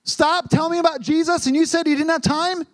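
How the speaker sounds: high, disbelieving retort; can't believe she turned them down; incredulous boys. Retold or imitated. Boys asking the woman in disbelief, high and incredulous. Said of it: "And they said".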